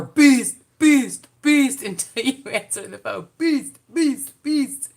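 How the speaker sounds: high, loud chanting of "Beast"; mock "Beast" ringtone. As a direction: chant "beast" over and over like a phone ringing. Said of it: "to have your phone saying".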